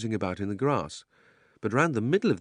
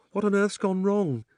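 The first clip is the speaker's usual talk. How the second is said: frightened; 11 semitones higher, 3 dB louder than usual. Acted. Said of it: "in a frightened voice".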